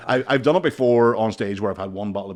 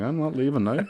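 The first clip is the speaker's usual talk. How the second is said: laughing; 5 semitones higher than usual. Retold or imitated. Retelling his own thought while laughing.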